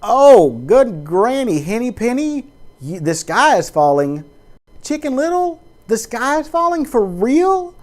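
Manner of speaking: high, loud mock panic about the sky falling; Chicken Little panic. Preacher mocking an alarmist as Chicken Little, high and frantic. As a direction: ham up the alarmist, squealing. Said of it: "Is it Henny Penny or Chicken Little".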